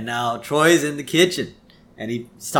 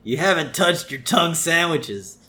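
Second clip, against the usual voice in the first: Selma; 5 semitones higher than usual. Retold or imitated. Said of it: "Selma say".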